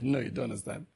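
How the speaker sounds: a hint of a soft, patient Jesus voice; teacher calming his disciples; Jesus speaking gently. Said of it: "Jesus said".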